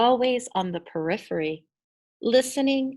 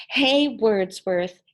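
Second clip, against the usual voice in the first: mock teasing; 5 dB louder, slower than usual. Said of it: "kids would giggle".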